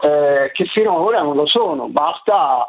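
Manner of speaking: ordinary talk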